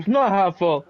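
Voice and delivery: chewing while talking; speaking through a bite; mouth full. Real, not acted. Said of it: "Are you fucking eating?".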